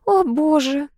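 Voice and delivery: groaning. A narrator's reading. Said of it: "простонала Энн".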